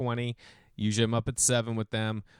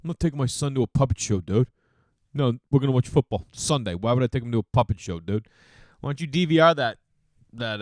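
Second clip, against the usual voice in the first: mock bro dude. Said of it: "dudes that I know, like".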